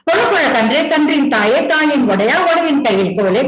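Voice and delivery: rapid singsong storytelling rhyme; chain-rhyme recitation. Acted. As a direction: reel off the rhyme link by link.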